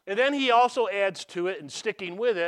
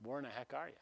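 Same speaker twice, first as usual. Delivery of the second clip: soft, low muttered grievance to God; hushed, low private complaint; inner complaint; 7 semitones lower, 14 dB quieter than usual. Retold or imitated. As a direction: grumble quietly at God under your breath. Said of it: "in my heart, I'm saying".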